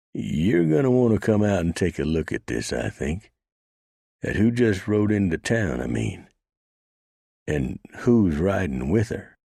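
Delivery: put-on nervous young man fetching his boss; young deputy urging. Deputy urging the marshal to come look.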